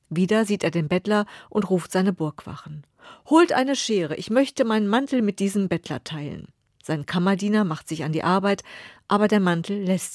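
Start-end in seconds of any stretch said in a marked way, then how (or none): 3.3-6.5 calling guards. Acted. King calls his guards.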